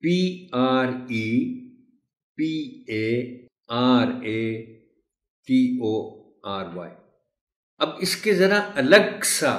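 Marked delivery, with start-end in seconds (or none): 0.0-6.9 slow spelling, letter by letter; spelling aloud. Shown as a demonstration. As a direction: spell each letter out slowly. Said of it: "spelling वो लिखा कैसे जाता है".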